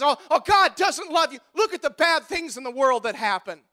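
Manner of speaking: mock the unbeliever's complaint; mock doubter. Preacher mocking the world that defies God, mild mock whine. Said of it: "that defies God and says".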